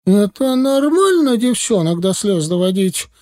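high-pitched, indignant accusation; menacing bark. A narrator's reading. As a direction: tear into him for upsetting a friend. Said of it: "грозно рявкнула вторая".

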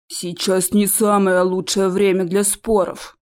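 slow, calm peacemaking tone; smooth things over gently; a mild conciliatory plea. Acted. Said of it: "примирительно сказал Дагрон".

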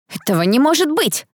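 high, incredulous exclamation; joining the protest. A narrator's reading. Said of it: "подключилась Элли". (недоверчивое восклицание)

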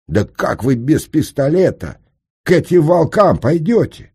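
high, alarmed protest; aghast gasp. A narrator's reading. Senka learns the engineer has no pistol, high aghast exclamation. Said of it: "ахнул Сенька".

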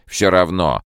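high, loud outcry; crying out. A narrator's reading. Herbie crying out to the scientists. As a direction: cry out in despair. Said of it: "вскричал Эрби".

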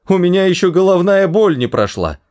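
high, whining protest; panicked cry. A narrator's reading. Arthur protesting as he is dragged away, high cry. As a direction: keep wailing high in pitch. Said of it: "закричал Артур".

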